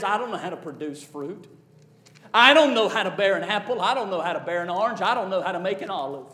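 quick, hushed, fretful little branch; little branch voicing doubt. Preacher voicing a tree branch to his congregation, quick and hushed. Branch voiced in sermon parable.

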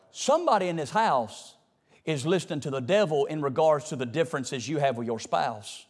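normal talking voice

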